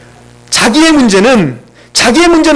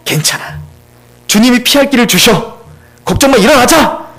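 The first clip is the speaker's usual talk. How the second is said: reassuring pep talk; 2 semitones lower than usual. Retold or imitated. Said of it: "담대하게 선포하십시오".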